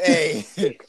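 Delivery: high squeaky cartoon mouse greeting; Minnie Mouse voice. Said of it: "with the Minnie Mouse voice".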